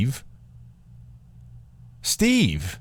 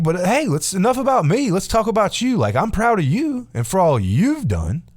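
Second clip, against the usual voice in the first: creepy Steve; 10 semitones higher than usual. Retold or imitated. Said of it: "he's like".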